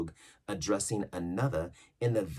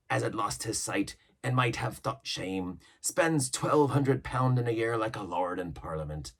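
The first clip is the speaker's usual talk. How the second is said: Long John Silver; 2 semitones higher, 5 dB louder than usual. Acted. Silver yarning to the crew about old ships, mild pirate voice. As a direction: spin the yarn like an old sea cook. Silver boasts to young hand.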